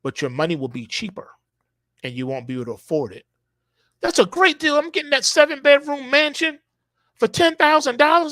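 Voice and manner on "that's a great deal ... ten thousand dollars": much higher, louder, gleeful voice of a bargain hunter; mock excited buyer. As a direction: crow about the cheap mansion. Imagined buyer gloating over bargain.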